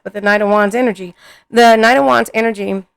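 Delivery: talking while chewing gum; words around a wad of gum. Real, not acted. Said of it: "I got gum in my mouth".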